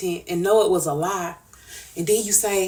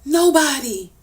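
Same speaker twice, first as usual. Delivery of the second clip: sharp outburst; 5 semitones higher, 5 dB louder, slower than usual. Real, not acted. Sudden outburst.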